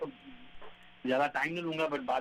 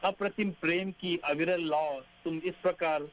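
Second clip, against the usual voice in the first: poem recitation. Acted.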